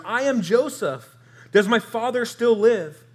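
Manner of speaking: high, loud read-aloud declaration; dramatic proclamation. A narrator's reading. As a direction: proclaim it as a great reveal. Acted Bible reading of Joseph's reveal.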